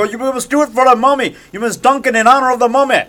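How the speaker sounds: high, hammed-up insistence; movie ritual command. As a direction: urge her on with mock fervor. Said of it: "I go".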